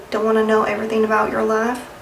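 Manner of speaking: light Southern accent, life said as laugh; Southern accent try. Shown as a demonstration. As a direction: another light stab at Southern. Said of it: "That's Southern".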